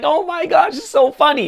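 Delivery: giggly, laughing, very high gushing voice. Acting out someone who laughs while others fear: imitating someone laughing. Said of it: "He's gonna laugh and he's just like".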